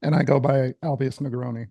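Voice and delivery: croaky frog-like voice. Real, not acted. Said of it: "the frog voice once again".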